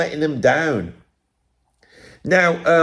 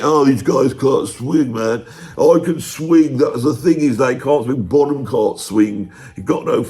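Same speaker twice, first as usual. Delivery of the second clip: slow, smug swing-cliche voice; mock jazz snob. Imitating a drummer dismissing rock players, slow smug drawl. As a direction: drag it out like a know-it-all. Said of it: "He uses the swing cliche".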